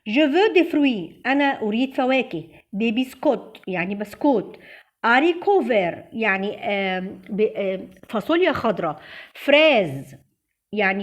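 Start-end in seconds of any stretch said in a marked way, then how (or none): 0.1-1.3 French said very slowly and deliberately; slow model sentence. Shown as a demonstration. Teacher modelling a French example for students, slowly. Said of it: "بصوا ده جمع فخدنا دي". 5.1-6.1 French said very slowly; slow model word. Shown as a demonstration. Teacher pronouncing a French food word slowly. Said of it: "بصوا ده جمع فخدنا دي".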